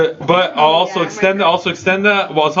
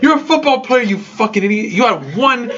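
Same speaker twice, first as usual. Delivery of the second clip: higher, half-laughing rant at a player; laughing mock rant; 7 semitones higher than usual. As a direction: scold him, cracking up as you go. Ranting at injured player, laughing.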